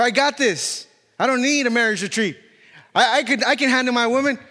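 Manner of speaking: hint of a Southern accent, badly faked; attempted Southern accent. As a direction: put on a half-hearted Southern accent for a cocky husband. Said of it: "trying to do a Southern accent".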